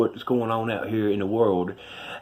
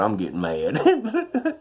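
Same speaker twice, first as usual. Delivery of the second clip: slow, half-laughing complaint; drawn-out words, laughing at himself; much slower than usual. Retold or imitated. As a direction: laugh through a mock grumble. Retelling his complaint to God.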